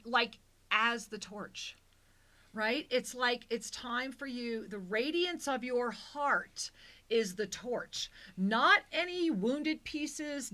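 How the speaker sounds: slow, emphatic spiritual delivery; channeled message. Acted. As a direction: lean into each "not". Channels message with stressed repetitions.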